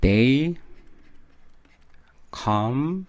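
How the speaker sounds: very slow, one word at a time with gaps; each word held out and separated; word-by-word model. Shown as a demonstration. Teacher showing students the lyric word by word, slow and separated.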